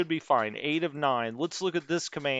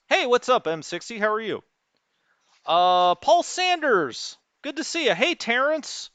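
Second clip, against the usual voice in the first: high, upbeat calls to chat viewers; excited greetings; 7 semitones higher, 3 dB louder than usual. Real, not acted. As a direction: call out each name brightly.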